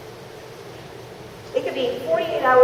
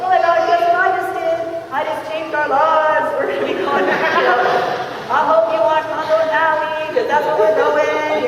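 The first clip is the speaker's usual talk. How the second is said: high, gushing news to a spouse; breathlessly thrilled, hammed up; over-the-top excitement; 4 semitones higher, 3 dB louder than usual. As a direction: stretch the big promises out in giddy delight. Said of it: "so excited".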